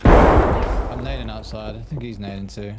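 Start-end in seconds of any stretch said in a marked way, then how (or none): 0.0-1.8 loud callout. Real, not acted. Callout in firefight.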